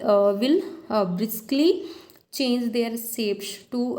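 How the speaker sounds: reading the definition aloud, word by word; slow textbook reading. Acted. Teacher reads slide definition to students, slow and deliberate. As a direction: spell out the definition slowly for students.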